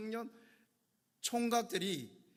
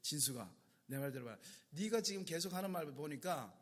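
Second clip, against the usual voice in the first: normal talking voice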